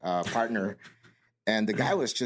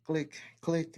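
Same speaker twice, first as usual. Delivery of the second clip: imitated footstep clicks; 5 semitones higher, 6 dB quieter than usual. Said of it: "you could hear 'em coming".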